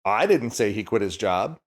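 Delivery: "didn't" lifted, rest plain; stress demo. Shown as a demonstration. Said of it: "depending on which word you put the emphasis on".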